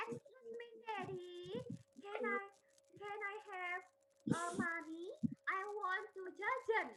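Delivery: softly, politely asking Dad; hesitant, soft and courteous; polite child's request. Shown as a demonstration. Child politely interrupting Daddy to ask for money, polite and soft.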